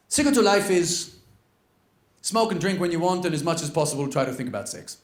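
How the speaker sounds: put-on lightly done Austrian accent; an old Austrian man handing down advice, Austrian accent. Old billionaire revealing life's secret, light Austrian accent. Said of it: "in his still Austrian accent".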